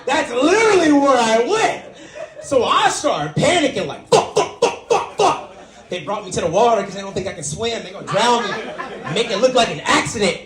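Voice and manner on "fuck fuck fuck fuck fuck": high, squeaky panicked "fuck, fuck"; rising panic, squeal each curse; panicked swearing. Retold or imitated. Panicking on the boat.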